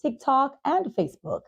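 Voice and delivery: upbeat ad read, brisk and bright; podcast outro ad read; sponsor read. Acted. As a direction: sell the sponsors like a radio host.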